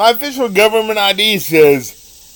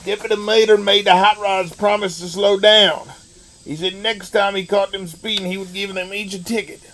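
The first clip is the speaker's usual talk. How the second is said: terrible Larry the Cable Guy. Acted. Reading Deputy Mater aloud to listeners, in a hammed-up redneck Southern accent. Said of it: "that was me doing a terrible Larry the Cable Guy impersonation".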